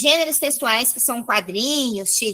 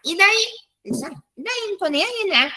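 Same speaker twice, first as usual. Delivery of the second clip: lightly acted indifferent teen, higher; careless attitude; 5 semitones higher than usual. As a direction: brush it off, not caring at all. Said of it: "ele não quer saber".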